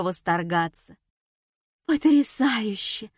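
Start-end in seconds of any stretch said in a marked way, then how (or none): 1.9-3.1 higher, slowed exclamation of delight; excited cry. A narrator's reading. Sveta gushing over clay figurines, mock-enthusiastic cry. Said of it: "закричала Света".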